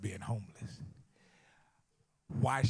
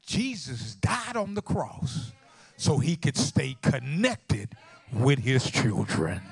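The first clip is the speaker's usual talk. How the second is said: slow preaching climax, swelling loud; 7 dB louder, slower than usual. Real, not acted. Preacher likens the daughter's story to the cross, slow rising proclamation. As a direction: proclaim it slowly, building in force.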